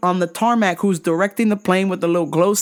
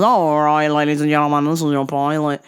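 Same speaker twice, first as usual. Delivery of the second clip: Australian pilot; 4 semitones lower than usual. Retold or imitated. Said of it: "this fucking Aussie guy goes".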